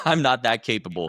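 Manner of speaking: self-deprecating chuckle through the words; laughing. Real, not acted.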